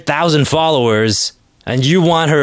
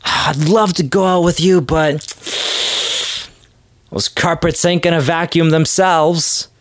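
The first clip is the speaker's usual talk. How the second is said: put-on snooty white girl; 4 semitones higher than usual. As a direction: politely turn him down, pitched up. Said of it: "they're like".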